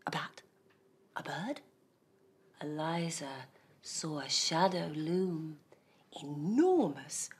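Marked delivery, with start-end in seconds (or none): 2.6-7.3 whispering. A narrator's reading. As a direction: breathe out the looming shadow. Shadow looms, suspense.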